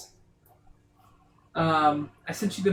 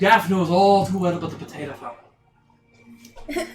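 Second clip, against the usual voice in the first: put-on slow lilting Irish accent; 4 dB louder, slower than usual. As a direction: speak it as an Irishman. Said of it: "the Irish accent".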